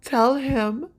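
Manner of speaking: high, loud and slow, rising to a near cry; a young queen finally turning on her brother; loud, slow, seething threat; furious princess. Acted. Daenerys threatens Viserys.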